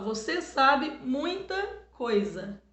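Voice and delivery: each word spaced out slowly for the class; slow teacher demonstration; slow, deliberate reading. Shown as a demonstration. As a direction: read it slowly so kids hear the vowels. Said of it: "quando eu falo".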